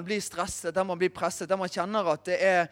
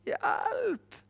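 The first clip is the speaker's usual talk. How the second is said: mock panic; 2 semitones lower, 4 dB quieter, much slower than usual. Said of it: "litt sånn".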